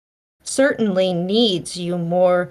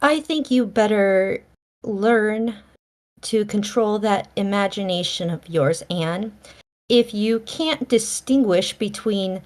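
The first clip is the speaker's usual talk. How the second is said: cross. Acted. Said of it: "said Marilla crossly".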